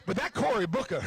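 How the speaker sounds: lightly voiced audience member grumbling; a hint of a disappointed rally guest; mock listener's complaint. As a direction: tease yourself through her voice. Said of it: "she's gonna go home and say".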